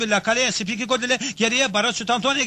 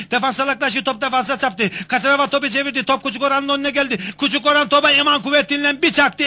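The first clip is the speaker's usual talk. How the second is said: excited commentator. Acted. Commentator building to the goal.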